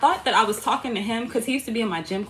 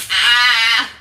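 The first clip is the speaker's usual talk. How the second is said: dramatic sad sigh; 12 dB louder than usual. Retold or imitated. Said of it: "just lay there like".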